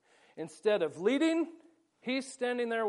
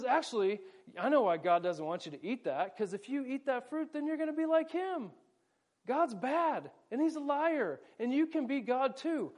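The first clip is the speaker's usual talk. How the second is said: higher, hushed persuasive tempter; sly Satan; 5 semitones higher than usual. Acted. Pastor voicing Satan luring Eve, sly and high. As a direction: sell the lie in a raised, sneaky voice.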